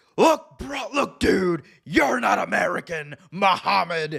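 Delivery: slow high-pitched bro drawl. Retelling a wrestling promo, quoting Hulk Hogan: Hulk Hogan impression. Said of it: "Hogan, he just started".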